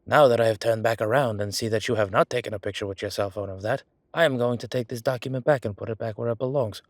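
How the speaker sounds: stilted, hammed-up formal announcement; playfully put-on officialese; mock official. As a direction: recite it like an overly proper official. Pretends formal officialdom after the favor.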